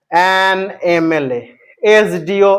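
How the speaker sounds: অ্যান এম এল এ, slow and spelled out; slow demo. Shown as a demonstration. Teacher to students, slowly modelling the example. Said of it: "উচ্চারণ করতে গিয়ে".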